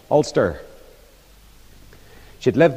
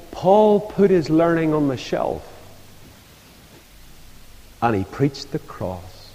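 a hint of a frail old woman, slowing and softening at the end; old lady's wheezing voice. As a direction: lightly imitate an ailing old lady's solemn words. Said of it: "that old lady with her wheezing voice".

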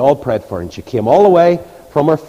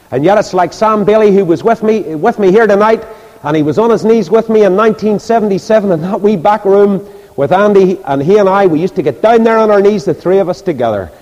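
high-pitched, raised pulpit storytelling; preaching; 7 semitones higher, 5 dB louder than usual. Real, not acted. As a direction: tell it out to the whole congregation. Preaches at full force.

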